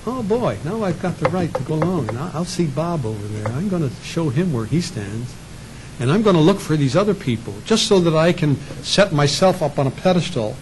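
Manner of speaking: a light smug hypocrite preening; self-righteous. Acted. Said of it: "a self-righteous attitude".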